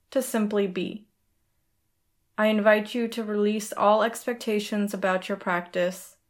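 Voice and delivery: ordinary talk, nothing marked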